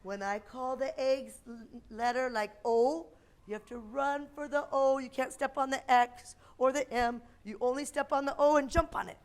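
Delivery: put-on bright, patient voice for small kids; kindergarten teacher voice. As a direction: explain a game to little children. Leads kids' game.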